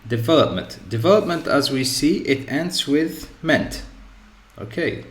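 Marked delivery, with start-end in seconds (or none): 0.0-1.5 development, punched on ve; stress on VE. Shown as a demonstration. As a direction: model de-VE-lop-ment with the second syllable stressed. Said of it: "we have".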